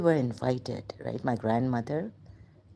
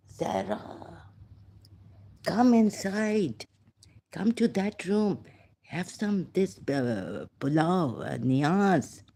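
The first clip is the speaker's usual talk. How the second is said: caretakers inviting; 3 semitones higher, slower than usual. Retold or imitated. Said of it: "they were like".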